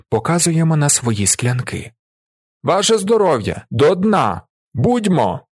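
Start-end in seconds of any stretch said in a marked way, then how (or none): 2.6-5.5 loud, high triple toast. A narrator's reading. Drinkers toasting the villagers, loud. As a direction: shout the toasts to finish them.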